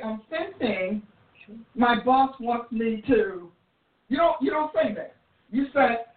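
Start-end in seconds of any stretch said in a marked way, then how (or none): 0.0-3.5 slow, drawn-out imitation of a hedging worker; mock unsure employee. Preacher mocks a worker hedging about the boss, slow. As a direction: stretch out I'm sensing like someone unsure of their orders.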